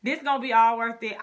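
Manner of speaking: keyed-up remembered excitement; retold excitement. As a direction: act out excited new resolve. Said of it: "I was so excited".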